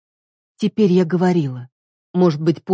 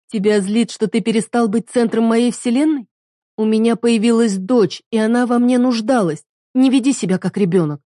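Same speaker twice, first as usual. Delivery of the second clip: higher, cutting reproach; wife rebuking husband; bitter rebuke; 6 semitones higher than usual. Acted. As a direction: scold him like a child. Heroine rebukes him.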